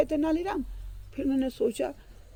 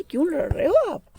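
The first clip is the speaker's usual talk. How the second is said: Tenali asking firmly, a bit louder; stern question; 6 semitones higher, 5 dB louder than usual. Acted. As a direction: demand why they fight. Tenali questions two fighting men. (Tenaliram का दृढ़ सवाल)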